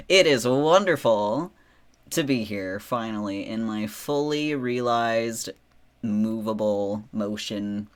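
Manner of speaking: drawn-out, grand and loud; grandiose. Real, not acted. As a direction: relish every word like royalty. Grand greeting on debut stream.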